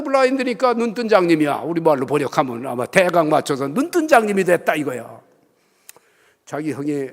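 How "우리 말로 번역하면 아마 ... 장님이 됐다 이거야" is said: ordinary talk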